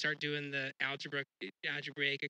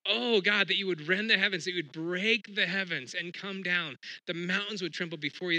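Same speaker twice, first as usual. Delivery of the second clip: raised, pleading cry to heaven; crying out to God; 3 semitones higher, 5 dB louder than usual. Retold or imitated. Prophet crying out to heaven in prayer, raised pleading. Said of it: "he cries out to heaven".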